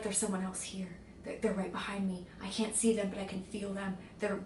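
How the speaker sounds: put-on soft eerie voice of a dead girl; half-whispered, a hint of dread; creepy whisper. Revived girl saying creepy things.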